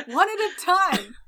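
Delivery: high, harried crowd-control yell; Botchus. Acted. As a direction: call loudly for order among kids. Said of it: "Botchus is yelling something like".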